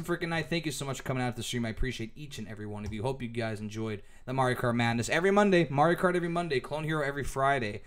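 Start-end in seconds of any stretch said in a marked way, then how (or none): 5.1-7.8 tired, hoarse voice. Real, not acted. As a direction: talk through a fading, hoarse voice. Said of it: "I'm losing my voice".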